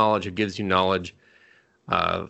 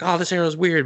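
higher, puzzled aside; puzzled elf; 9 semitones higher than usual. Retold or imitated. Elf shooting the odd arrow, higher puzzled. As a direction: sound baffled by the arrow. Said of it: "she's just like".

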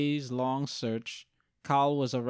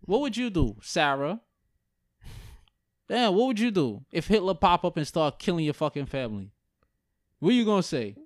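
raised-pitch mock challenge; indignant imagined comeback, pitched up; confronting the reporter; 3 semitones higher than usual. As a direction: fire it back at the reporter. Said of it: "I would ask them".

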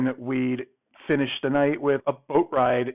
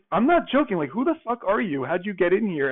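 shrill pitched-up yell, pushing hard; imitated furious yelling; 6 semitones higher than usual. Date demanding he explain how he got in, mock furious yell. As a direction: throw her outrage back at the room. Date insists he's an intruder.

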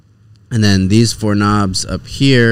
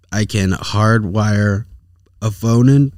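slow, halting first try; slower than usual. Real, not acted. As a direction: drag it out, losing the thread.

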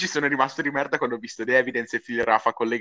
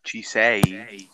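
whispering; 2 semitones lower than usual. Real, not acted. Checking if the call is back.

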